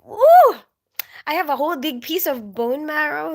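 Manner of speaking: loud high whoop, then a bright boast; excited cheer. Retold or imitated. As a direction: cheer it like a proud mom serving a treat. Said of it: "I would be like".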